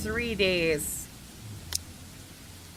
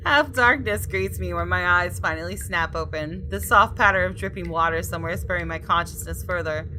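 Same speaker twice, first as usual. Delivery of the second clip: story narration. A narrator's reading. Reads game text aloud.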